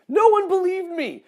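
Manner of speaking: loud, very high protest; hammed-up high-pitched outburst; mock-indignant cry. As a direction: wail it way up high in exaggerated complaint. Mock outrage at disbelieving friends.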